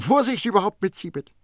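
high, insistent alarm; agitated caution, pitched high; urgent warning. A narrator's reading. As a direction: warn sharply of a costly mistake. Baldini warns himself about civet.

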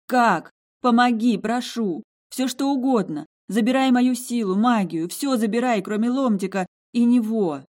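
high, loud frantic pleading; desperate begging. Acted. Heroine begging the ruby heart to save her husband, high loud frantic pleading. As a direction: beg with everything you have.

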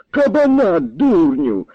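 high, exasperated outburst; seriously angry. A narrator's reading. Old man scolding slow-witted lad, seriously angry. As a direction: snap it at a fool, voice leaping up. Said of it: "не на жарт розгнівався старий".

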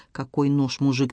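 bewildered, half-smothered protest; a hint of panic, voice dropped; muffled confused panic. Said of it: "он запаниковал".

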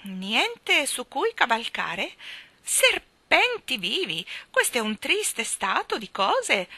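high, slow, loud crowing exclamation; squawking old lady, dismayed. Acted. Miss Calico lamenting to the children, high slow squawk. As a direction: cluck it out in mock dismay.

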